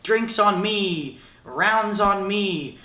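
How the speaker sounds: slow, drawn-out bar bravado; big spender at the bar. Retold or imitated. Cool guy at the bar announcing drinks, slow mock bravado. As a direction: lay it on like the generous guy at the bar. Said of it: "the guy who's like".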